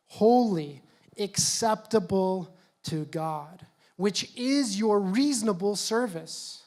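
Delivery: slow, solemn scripture reading; measured Bible reading. Acted. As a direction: read it slowly, letting each phrase land. Reads scripture aloud slowly.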